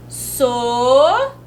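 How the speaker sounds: "Sonolenta" said so-no-len-ta, syllables apart. Shown as a demonstration. Teacher showing the class the letters of "Sonolenta", sounded out. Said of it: "ó".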